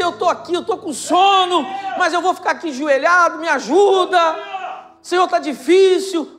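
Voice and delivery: half-laughing plea of a sleepy believer, loud; weary honest prayer. Pretend. Pastor voicing a tired believer praying to God, laughing and loud. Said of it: "dizer assim".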